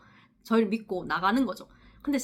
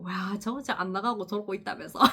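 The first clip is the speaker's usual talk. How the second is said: softer, giggling complaint; gossiping laugh; 6 dB quieter than usual. Retold or imitated. Two nurses complaining after leaving, giggling gossip. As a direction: badmouth them, half laughing. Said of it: "둘이서 막 욕하고".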